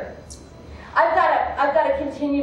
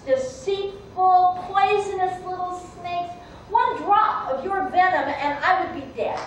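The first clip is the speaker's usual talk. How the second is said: higher-pitched, distrustful refusal; wary accusation; 5 semitones higher than usual. Acted. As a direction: accuse the snake, drawing out the insults. Man refuses the trapped snake's plea.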